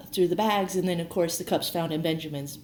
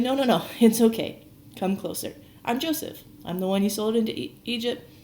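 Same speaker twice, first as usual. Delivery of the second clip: higher-pitched, insistent soothing with a light laugh; retold reassurance; 6 semitones higher than usual. Joseph calming his startled brothers, in raised-pitch reassurance. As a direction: lightly act out calming someone down.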